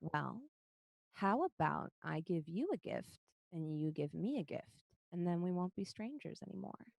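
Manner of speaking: soft, tempting stranger; quiet, gently persuasive offer; gentle coaxing. Acted. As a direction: coax a child softly into a bargain. Gentle voice coaxes the goblin child.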